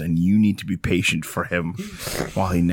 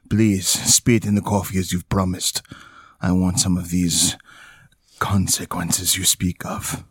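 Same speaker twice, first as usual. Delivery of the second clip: storyteller voice. Shown as a demonstration. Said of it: "the voice that you'd like to use".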